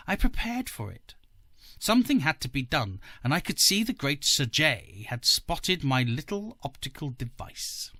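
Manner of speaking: querulous, climbing rant; querulous rising. Acted. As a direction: let the voice rise peevishly as he rants. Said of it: "His voice rose querulosely".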